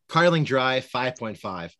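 stiff announcer read of the beer name; robot voice. Shown as a demonstration. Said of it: "I'm gonna interrupt the pod real quick to say".

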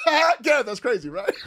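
loud, high laugh into the words; mock carefree laughter; imitated laughing it off. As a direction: play a brother cackling at his own chaos. Brother laughing it off, acted.

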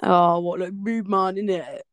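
mock London street slang delivery; London roadman accent. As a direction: lightly imitate a London roadman. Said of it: "talking like they were from London".

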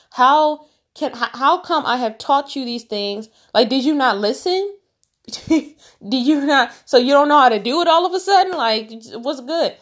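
can't believe they didn't listen; incredulous Jesus. Retold or imitated. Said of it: "That's what Jesus is saying".

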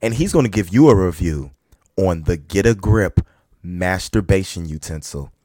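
slow hyped-up host intro; show announcer. Acted.

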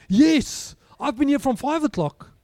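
the stranger in the queue eagerly joining the complaint, laughing; eager agreeing gripe. Pretend. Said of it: "ten people jumping on it".

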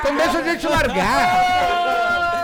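high, loud words through laughter; begging while cracking up; laughing plea. Retold or imitated. Narrator laughs while pleading with the robbers.

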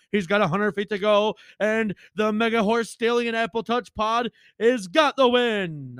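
horse race call. Acted. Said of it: "like I'm calling a horse race".

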